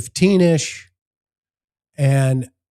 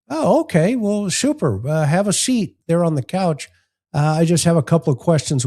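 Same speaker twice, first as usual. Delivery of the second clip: fake cheerful; 4 semitones higher than usual. Detective fakes cheerfulness.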